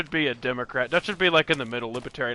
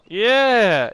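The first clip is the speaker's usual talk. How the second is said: excited; 6 semitones higher, 7 dB louder than usual. Real, not acted. Recognising the channel.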